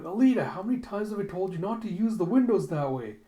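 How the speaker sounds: exasperated nagging; scolding landlady. Retold or imitated. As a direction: tell her off like a fed-up landlady.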